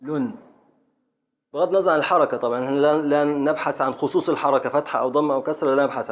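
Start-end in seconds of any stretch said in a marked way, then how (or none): 0.0-0.3 "لن" alone, closed on the ن; teacher's final syllable demonstration; isolated metrical syllable. Shown as a demonstration. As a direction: sound out "لن" as a separate syllable. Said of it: "حركة، سكون".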